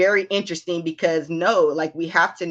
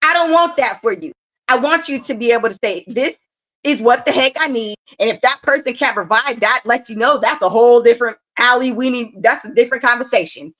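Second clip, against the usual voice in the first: put-on higher, earnest talk to the kids; motherly lecture; 5 semitones higher, 4 dB louder than usual. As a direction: lecture a child with love. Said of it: "I be telling my kids".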